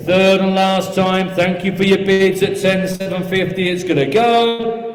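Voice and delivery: brisk steady auction bid calling; auctioneer calling. Real, not acted. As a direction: rattle off the bids like an auctioneer.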